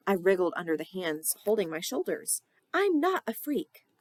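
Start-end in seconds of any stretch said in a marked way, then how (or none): 2.7-3.9 high, loud protest; protesting loudly. Acted. Emily protesting in sleep.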